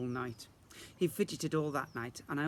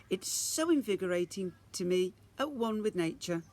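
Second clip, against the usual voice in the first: higher, louder gushing mum voice; 6 semitones higher, 4 dB louder than usual. Acted. Mum praising the pond bath, gushing. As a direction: gush like a nature-loving mum.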